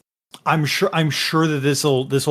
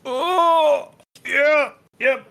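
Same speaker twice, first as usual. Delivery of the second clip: much higher, eager mock agreement; a squeaky yes-man chirping along; squeaky character voice; 12 semitones higher, much slower than usual. Devine agreeing with Fyrus, high squeaky voice. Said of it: "And he's like".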